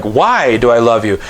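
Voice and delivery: puzzled, doubting question. Shown as a demonstration. Husband doubting his own love, puzzled question. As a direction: ask it as if unsure why. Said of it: "And I'm questioning it".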